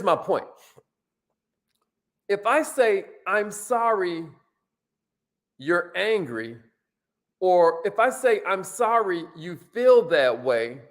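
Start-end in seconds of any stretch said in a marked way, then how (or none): 3.3-6.6 condescending. Shown as a demonstration. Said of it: "that can sound condescending". 8.5-10.8 condescending. Shown as a demonstration. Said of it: "that can sound condescending".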